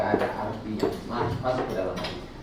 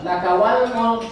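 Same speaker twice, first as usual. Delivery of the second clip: recited Arabic; 9 semitones higher, 7 dB louder, slower than usual. Shown as a demonstration. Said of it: "segala kekuasaan milikmu".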